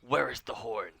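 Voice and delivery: booming call from a giant; giant's yell. Acted. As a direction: yell it out to the battlefield. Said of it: "She yells this in Giant".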